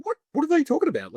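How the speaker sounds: high-pitched, incredulous questioning; mock bafflement. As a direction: act out puzzled disbelief. Retold bafflement at others getting wrecked.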